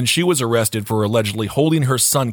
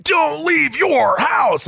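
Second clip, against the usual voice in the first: alarmed phone voice; 12 semitones higher, much slower than usual. Retold or imitated.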